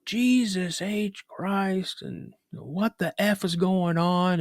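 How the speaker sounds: slow, high exclamation, words drawn out; mock a baffled, exasperated dad. Dad pulling up and cursing at what he finds, exasperated.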